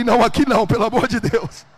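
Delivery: comic panicked pleading at full volume; hammed-up shout of protest; loud mock plea. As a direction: beg loudly, playing up the alarm. Pleads with her in the museum.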